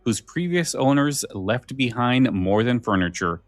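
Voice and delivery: measured, dramatic trailer narration; trailer read. Acted. Host reading the episode blurb to listeners, dramatic promo voice. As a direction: pitch it like a spooky radio promo.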